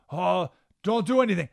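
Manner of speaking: hammed-up worried begging; mock fearful plea. Advisors begging the king not to act, mock fearful. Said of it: "they got emotional and said".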